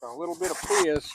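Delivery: put-on a soft, breathy aside in the cowboy accent, savoring the can's hiss; hushed fizz. Host savoring the opened beer in a hushed cowboy aside. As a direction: lean in close and murmur it.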